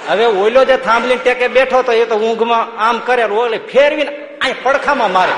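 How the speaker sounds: can't hold back the laugh telling it; laughing storytelling. Real, not acted. Swami to the congregation, laughing through the goat story.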